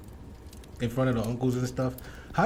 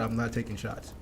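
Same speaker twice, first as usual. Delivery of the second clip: backing off, "I'm not taking shots" said softer and calmer; softer, reassuring; 5 dB quieter than usual. Shown as a demonstration. Host reassuring viewers after a jab, softly. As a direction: take the edge off, gently. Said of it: "that sounded like a shot".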